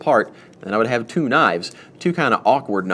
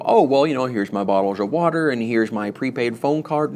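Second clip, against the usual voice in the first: innocent excuse voice. Pretend. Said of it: "I don't know why I'm talking in this voice".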